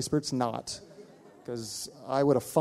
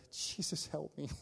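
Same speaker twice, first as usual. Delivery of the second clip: whispered, much softer plea; tiny whispered prayer; 2 semitones higher, 12 dB quieter than usual. Retold or imitated. Pastor silently begs Jesus for help, whispered. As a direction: breathe the prayer under your breath. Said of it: "I say this tiny little prayer".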